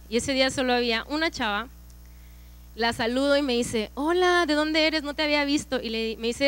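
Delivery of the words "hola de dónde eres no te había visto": higher-pitched imitation of a friendly stranger; friendly greeting.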